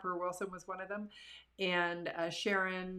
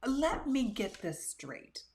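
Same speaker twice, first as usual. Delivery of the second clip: higher, very slow, mock disbelief; incredulous; 7 semitones higher, much slower than usual. Guy confronting the speaker after her talk, slow incredulous drawl. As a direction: draw it out like you can't believe it. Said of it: "he came up to me and he said".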